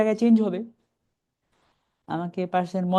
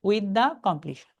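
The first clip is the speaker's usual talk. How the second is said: very slow, halting after completion; slow chunk with a stop at the end; beginner's chunk, stopping; much slower than usual. Shown as a demonstration. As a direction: read it the way a beginner pauses. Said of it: "আপনি যদি beginner হন".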